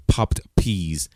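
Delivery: hard P pops straight into the mic; popped plosives. Shown as a demonstration. Showing Keith what mic pops sound like, hard plosives. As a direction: spit the P's right into the mic, no windscreen. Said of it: "that's how it sounds when I say popped peas without a windscreen".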